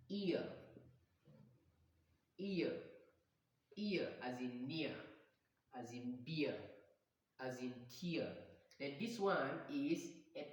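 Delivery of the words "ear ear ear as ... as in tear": EAR gliding from ee to uh; diphthong demonstration. Shown as a demonstration. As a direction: sound out EAR alone, then in NEAR, BEER and TEAR. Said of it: "this diphthong".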